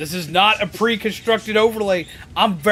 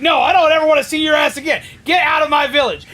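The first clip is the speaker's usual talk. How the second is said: mocking the commander; 6 semitones higher, faster than usual. Streamer mimicking the commander banishing him, mock yell. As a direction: sneer it as the ungrateful commander. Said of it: "you're like".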